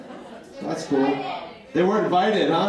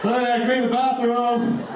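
mock innocent; 5 semitones higher, slower than usual.

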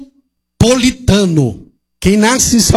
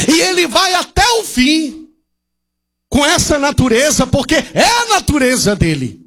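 higher, raised preaching cry; preaching shout; 4 semitones higher than usual. Real, not acted. Pastor shouting to the congregation about the devil. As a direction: proclaim it at full force.

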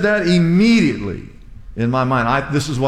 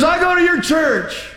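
higher-pitched voice for the woman at the park; imitating the lady; 12 semitones higher than usual. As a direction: play the lady brightly announcing herself. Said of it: "She goes".

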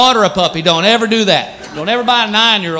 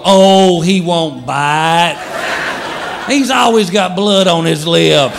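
slow, reassuring dog owner; breezy dismissive owner; mock casual owner voice; doting owner; 2 semitones lower, much slower than usual. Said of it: "the people who go".

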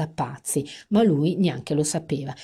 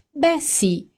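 much higher, purring meow; a higher, kittenish purr; mewing reply; 11 semitones higher than usual. A narrator's reading. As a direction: coo it like a smug cat. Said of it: "miagolò Amanda".

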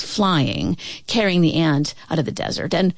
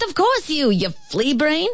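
angry shout; 9 semitones higher than usual. A narrator's reading. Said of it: "shouted the ant".

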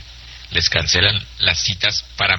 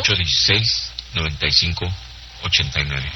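slow dictation; 4 semitones lower than usual. Real, not acted. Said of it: "Se lo digo despacito".

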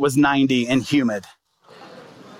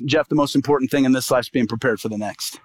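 voice of the Lord; 4 semitones lower than usual. Retold or imitated. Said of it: "heard the voice of the Lord".

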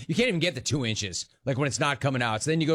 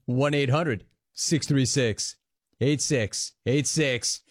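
slow, measured phone number read; radio announcer read; slower than usual. Acted. Radio host slowly reading the call-in number to listeners.

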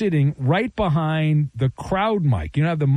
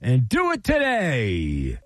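punchy, upbeat sponsor read; radio ad read; 3 semitones higher than usual. Acted. Host reads a sponsor ad.

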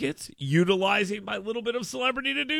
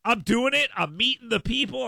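ordinary talk

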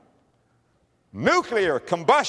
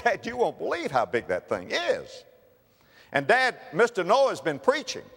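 put-on excited little boy; 5 semitones higher than usual. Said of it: "I can imagine a little boy".

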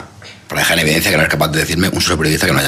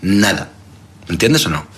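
comic character voice. Acted. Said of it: "¿quién es el número uno?".

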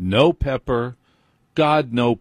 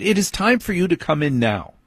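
higher, flat firm daughter calling him in; teen daughter's order; 7 semitones higher than usual. Retold or imitated. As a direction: mimic the daughter's insistence. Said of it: "She has decided".

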